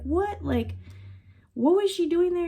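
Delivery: retold high-pitched bewildered question; incredulous. Wife questioning mother-in-law's news, incredulous. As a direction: pitch jumps up in disbelief. Reacting to startling news on phone.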